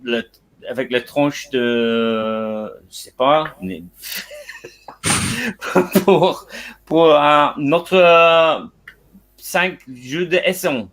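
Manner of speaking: English speaker's halting French accent; French with an English accent, hesitant; foreign accent in french. Real, not acted. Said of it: "mon français c'est un petit peu nul".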